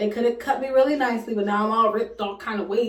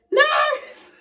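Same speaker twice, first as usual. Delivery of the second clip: calling out. Retold or imitated. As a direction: shout across the room for help. Friend runs calling for nurse.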